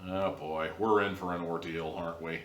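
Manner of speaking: a hint of a brooding hero; deep mysterious voice. Imitating the Witcher's lead, mildly deep mysterious voice. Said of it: "he talks with that deep, mysterious voice".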